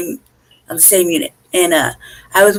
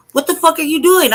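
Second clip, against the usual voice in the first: mild retold yell, pitched up; higher-pitched mock shout of protest; 6 semitones higher than usual. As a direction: reenact yelling at the officers without full volume. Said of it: "I'm yelling at the".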